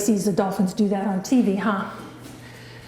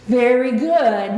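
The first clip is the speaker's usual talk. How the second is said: slow, louder praise; drawn-out praise; 4 dB louder, much slower than usual. Real, not acted. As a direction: stretch out the praise warmly. Praising the dog's roll.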